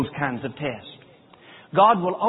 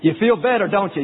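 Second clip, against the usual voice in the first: God's inner voice; 3 semitones higher, 4 dB louder than usual. Retold or imitated. God's voice challenging the father after mailing the letter, pointed. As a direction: press him like a knowing inner voice. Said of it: "he heard a voice right down in here".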